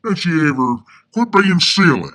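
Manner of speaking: a hint of a fussy Southern aunt from Alabama scolding; Alabama old lady. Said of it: "she talked like this".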